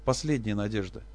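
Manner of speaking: usual speaking voice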